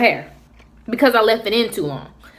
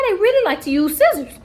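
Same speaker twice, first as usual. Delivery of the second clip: laughing through the words, higher; 9 semitones higher than usual. Real, not acted. Vlogger laughing to viewers about scissor-happy beauticians. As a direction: let a laugh break the line.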